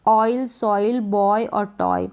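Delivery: "ऑयल, सॉइल, बॉय और टॉय" slowly, with clear oy; "oy" sound. Shown as a demonstration. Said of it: "ऑय pronounce करेंगे".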